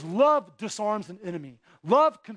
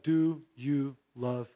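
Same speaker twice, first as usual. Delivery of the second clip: loving question; 6 semitones lower, 3 dB quieter, slower than usual. A narrator's reading. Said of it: "lovingly and said".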